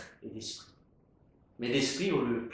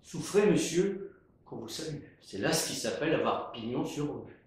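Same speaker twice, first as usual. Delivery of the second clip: respectful. Acted.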